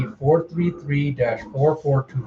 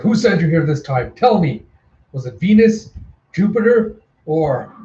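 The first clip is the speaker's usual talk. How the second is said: higher, punchy angry demand; demanding interrogation; 3 semitones higher than usual. Acted. Attacker punching her and demanding who sent her, demanding. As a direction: push each question up, insistent.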